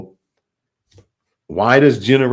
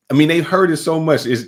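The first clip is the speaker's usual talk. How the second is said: ordinary talk, nothing marked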